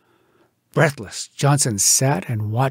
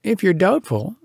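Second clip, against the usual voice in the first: higher, drily mocking advice; raised, sardonic lecturing voice; wry scientist; 6 semitones higher than usual. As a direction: humour the fool. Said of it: "Said the scientific person".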